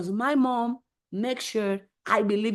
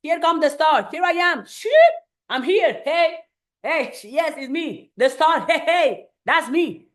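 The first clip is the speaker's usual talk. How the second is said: mock superstar entrance; 4 semitones higher than usual. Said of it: "you like".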